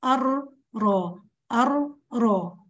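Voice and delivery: أر and را drawn out very slowly, the voice passing through the tongue tip; slow ra drill. Shown as a demonstration. Teacher models an untrilled ra for her students. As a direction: drill each ra with no trill. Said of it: "وهمرر منها الصوت".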